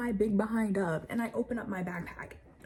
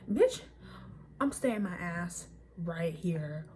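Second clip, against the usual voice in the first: exasperated outburst; 3 semitones lower, slower than usual. Retold or imitated. Outraged reaction.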